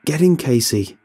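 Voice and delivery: loud, high bellow. A narrator's reading. Robbie bellowing at Casey to get in the car. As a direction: yell her out of her daze. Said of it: "Robbie bellows".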